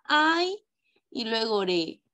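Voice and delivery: "Ay" held as one syllable, "re" set apart; syllable demo. Shown as a demonstration. Teacher showing pupils the diphthong's syllable, syllable demo. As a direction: stretch "Ay", pause, then give "re". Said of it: "van a estar en esta sílaba".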